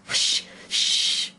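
urgent shushing; two voiceless warning shushes; low, hurried hushing. A narrator's reading. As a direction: hush her quickly. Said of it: "in a low, hurried tone".

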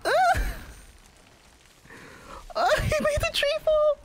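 piercingly high shriek of alarm; terrified scream. Real, not acted. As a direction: scream it out in sudden fright. Tree felled by pursuer.

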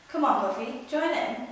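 high, loud cheerful invitation; cheerful call. Acted. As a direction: call your friend to come play. Barry cheerfully calls Puffy.

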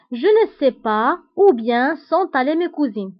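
slow, deliberate French test sentence; measured teacher's reading with clear gaps; slow example reading. Shown as a demonstration. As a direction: read it word by word for learners. Teacher testing substitution in example sentence.

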